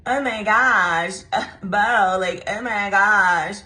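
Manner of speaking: slow, lightly voiced swooning girl; a hint of a smitten girl; mock swooning girl. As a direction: gush over Bo, slowly. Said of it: "the girl was just so like".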